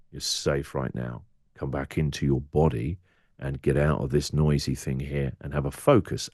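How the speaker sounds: soft, calming voice, like settling a spooked horse; hushed reassurance to a wild part of yourself; quiet soothing. Pretend. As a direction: gently talk your own panic down. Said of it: "you have to quietly go up to this wild part of you".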